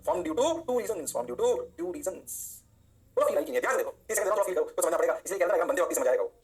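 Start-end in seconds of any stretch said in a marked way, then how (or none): 0.1-2.4 very slow, stretched-out recital; drawn-out classroom refrain; slow drilled phrase. Shown as a demonstration. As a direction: drag out every word so it sinks in. Teacher drills the key phrase slowly.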